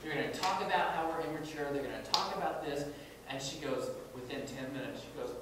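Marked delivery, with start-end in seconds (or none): 0.0-2.9 mock-angry quote, high and loud at first, easing off; retold anger. Speaker retelling an emerging adult's complaint about the seminar, mildly angry. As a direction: imitate an annoyed young listener, heated then settling. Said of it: "she was just so angry".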